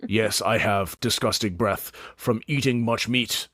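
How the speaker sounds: a hulking orc sizing them up; big orc Mountain. Acted.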